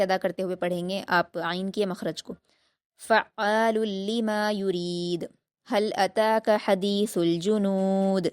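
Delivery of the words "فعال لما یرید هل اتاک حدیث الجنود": slow, melodic Quran recitation; tajweed recitation. Shown as a demonstration. Teacher reciting the verse for the student. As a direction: chant the verse with elongation.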